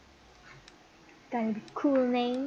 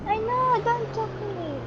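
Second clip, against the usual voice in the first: mock sulky voice; 9 semitones higher than usual. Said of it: "mock sulky reply".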